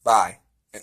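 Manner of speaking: ordinary talk, nothing marked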